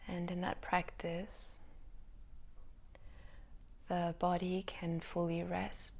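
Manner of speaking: spacious meditation-teacher delivery with long pauses; unhurried guiding voice, lingering between thoughts; yoga nidra guidance. Real, not acted. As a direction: let each phrase settle before the next. Guides listeners into yoga nidra.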